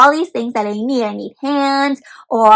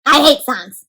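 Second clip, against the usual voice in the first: grumpy robot. Acted. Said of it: "says this robot".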